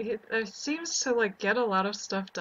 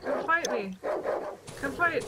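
taunting call; 6 semitones higher than usual. Pretend. Player taunts monster dogs.

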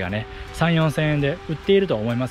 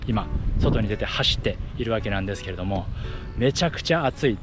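talking while jogging; a bit winded from running; 4 semitones lower than usual. Real, not acted.

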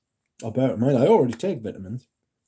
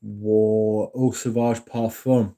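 slow and careful; much slower than usual. Real, not acted. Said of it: "Excuse me".

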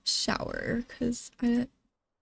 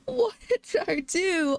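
alarmed cry; 8 semitones higher than usual. Real, not acted. Game firework mishap, panicked.

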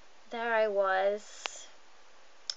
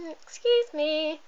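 polite excuse me; 4 semitones higher, 5 dB louder, slower than usual. Retold or imitated. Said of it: "Instead of being nice and going".

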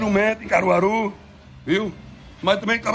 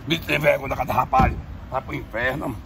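ordinary talk, nothing marked

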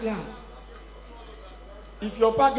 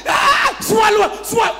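high, loud mock outburst; mock stern order; 9 semitones higher, 5 dB louder, slower than usual. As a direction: order a crying child, hammed-up. Father ordering children to swallow tears.

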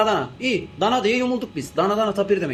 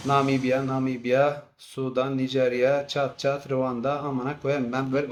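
despair; 6 semitones lower, 4 dB quieter, slower than usual. Acted. Listing countries in despair.

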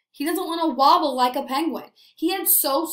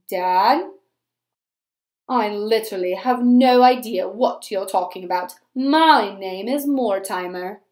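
mopey penguin; 2 semitones lower, 5 dB louder than usual. Acted. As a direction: sulk your way through it like a glum little penguin. Penguin speaks in story.

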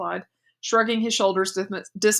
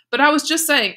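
much higher and louder, whining objection; a daughter objecting to her mother, loud and whiny; indignant protest; 8 semitones higher, 7 dB louder than usual. Acted. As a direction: protest like a hushed teenager. Daughter protests being hushed.

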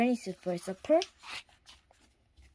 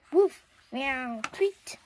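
woof and meow louder, tweet very high; animal chorus; 5 semitones higher, 4 dB louder, much slower than usual. A narrator's reading. The dog, cat and bird cheering as the turnip moves.

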